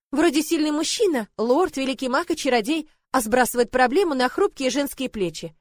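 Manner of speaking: snide. Acted. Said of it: "ехидства".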